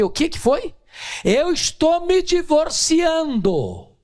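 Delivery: mock surprise, voice jumping high; startled. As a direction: act shocked at the news. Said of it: "Eu tomei um susto".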